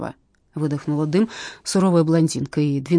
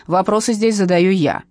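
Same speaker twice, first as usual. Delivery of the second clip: louder, curt command; stern cut-off; 2 semitones higher, 6 dB louder than usual. Acted. Captain cutting off the witness, stern. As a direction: shut her down. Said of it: "оборвала её суровая девица".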